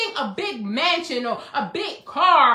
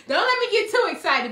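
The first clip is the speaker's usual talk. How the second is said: rising excitement; 6 semitones higher, faster than usual. Real, not acted.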